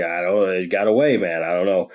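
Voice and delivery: low, subdued retold reply; mildly defeated. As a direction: give up with a small, resigned mumble. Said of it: "and it looks defeated".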